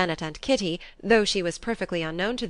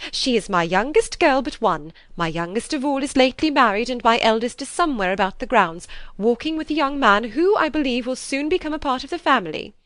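louder, gushing proud mother; delighted and eager; 5 semitones higher, 5 dB louder than usual. A narrator's reading. Mrs. Bennet boasting to Lady Catherine, louder and eager. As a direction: gush over your daughters to impress. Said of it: "delighted to speak to Lady Catherine".

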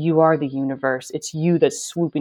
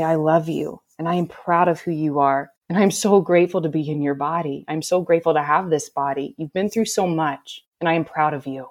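loving self-talk. Retold or imitated. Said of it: "and I'd say".

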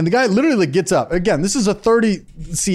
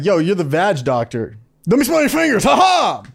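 mock-shouted frat guy jeer; crude bro voice. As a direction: holler it like an obnoxious dude. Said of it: "it's better than being like".

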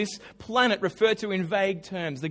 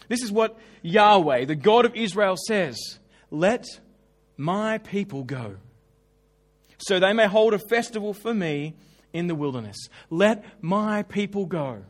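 proclaiming; 4 dB louder than usual. Shown as a demonstration. Preacher reads God's demand aloud.

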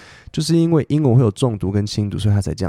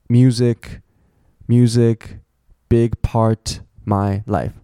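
"music, music, big part" as separate full words; each key word set apart by pauses; content words only; much slower than usual. Shown as a demonstration. Teacher strips a sentence to key words, isolated stressed words. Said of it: "我现在把所有的那些介系词、".

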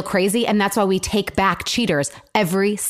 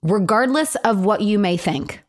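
mock reading. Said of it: "so gaslighting to me".

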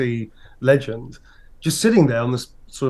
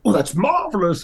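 very high, booming theatrical query; Brian Blessed impression; 7 semitones higher than usual. Old actor asking the grown-up fan, booming. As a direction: boom it like a grand old thespian. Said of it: "He was like".

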